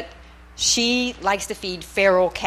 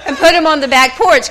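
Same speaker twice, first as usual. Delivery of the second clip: laughing through her own retold words; laughing retelling; 8 semitones higher, 7 dB louder than usual. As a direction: giggle while telling her husband. Retelling plan, laughing mid-quote.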